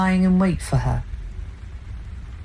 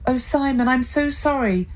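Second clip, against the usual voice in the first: softened; 8 semitones higher than usual. A narrator's reading. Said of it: "Claire softened".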